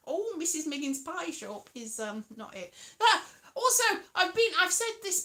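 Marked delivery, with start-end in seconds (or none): 0.1-1.7 badly faked Northern accent; attempted Northern accent. Shown as a demonstration. Trying to find a Northern accent for Missus Miggins, unsure Northern. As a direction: have a half-hearted go at Northern. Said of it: "I'll do that northern accent".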